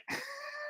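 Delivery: brief voiceless huff of laughter; short breathy laugh. Real, not acted. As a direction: let out one quiet, airy laugh. Rueful reaction to bad luck.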